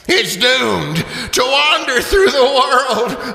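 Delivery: wailing lament. Acted. Marley's ghost laments its doom to Scrooge, a slow high moan. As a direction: moan out the woe.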